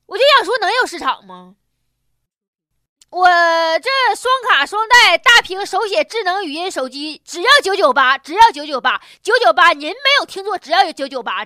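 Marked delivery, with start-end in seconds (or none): 3.1-11.5 infomercial. Pretend. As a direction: sell it like a late-night ad. Spoofs a TV shopping ad.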